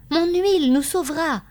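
high, loud burst of hope; emphatic, rallying outcry; fervent exclamation. A narrator's reading. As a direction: proclaim it with conviction. Husband exclaims his hope.

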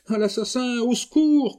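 scream for help. Acted. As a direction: scream it with all her strength. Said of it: "continua Suzanne". (hurlement de toutes ses forces)

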